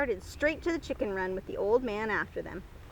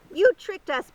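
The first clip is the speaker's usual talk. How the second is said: clucking; 7 semitones higher, 8 dB louder than usual. Acted. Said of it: "the chickens clucked".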